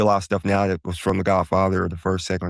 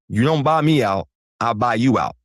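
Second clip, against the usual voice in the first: put-on Mo Green gangster accent; 3 semitones higher than usual. Vlogger quoting Mo Green snapping at Michael Corleone, in a mobster accent. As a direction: throw the line back like a tough Vegas mob boss. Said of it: "Excuse the accent".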